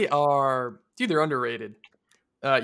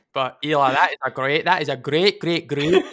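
loud put-on Scottish accent; 5 dB louder than usual. Co-host praising Eli's stat on request, in a put-on Scottish accent. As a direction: ham up an attempted Scottish accent. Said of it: "could you say that in a Scottish accent real quick".

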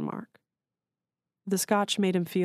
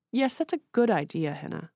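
soothing; 5 semitones higher than usual. A narrator's reading. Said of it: "in a soothing tone of voice".

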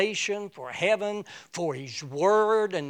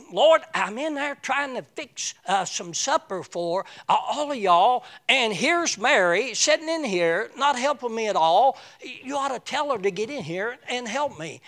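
higher, put-upon complaint; a hint of a flustered cook fed up with her sister; exasperated; 5 semitones higher than usual. Martha complaining to Jesus about Mary, a hint of exasperation. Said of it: "comes in all exasperated and says".

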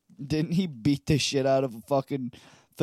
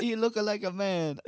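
higher put-on accented voice; Miss Swan; 4 semitones higher, 3 dB quieter than usual. Comic quoting a Mad TV character, put-on accented voice. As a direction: lightly do a sketch-show character's accent. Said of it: "Miss Swan from Mad T V".

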